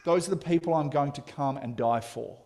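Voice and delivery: loud, earnest, leaning on THOSE; God claiming the protesters as his own; God's tender declaration. Retold or imitated. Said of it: "And God says".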